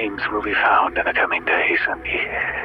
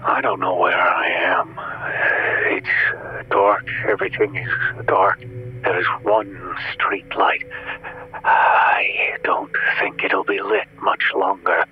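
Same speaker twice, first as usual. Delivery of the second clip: breathy frightened whisper; terrified whisper; 12 semitones lower than usual. Acted. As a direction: whisper it as if something hears you. Caller whispering in terror.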